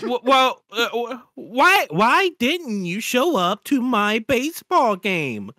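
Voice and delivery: slow robotic voice; text-to-speech voice. Acted. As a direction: read it like a computer, slowly. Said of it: "Two text-to-speech voices read out".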